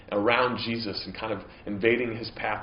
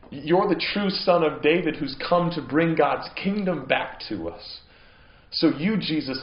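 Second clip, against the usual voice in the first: higher, louder, emphatic confession of faith; fervent plea; 7 semitones higher, 7 dB louder than usual. Retold or imitated. Blind man declaring to Jesus who he is, fervent and loud. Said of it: "So he's really saying".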